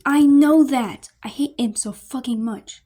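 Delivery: slow, loud sneer; sneering groan. Acted. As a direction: spit it out with disgust. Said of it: "Stella groans and sneers".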